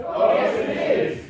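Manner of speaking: fast whispered oh yes it is; whispered panto callback. Acted. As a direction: hiss it back quickly, voiceless.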